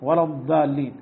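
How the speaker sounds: "الضالين" sounding like "الدالين"; overdone ḍād as dāl. Shown as a demonstration. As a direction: hit ض so hard it becomes د. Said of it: "أقرب للدال".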